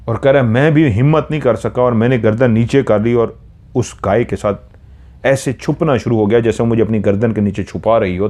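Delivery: ordinary delivery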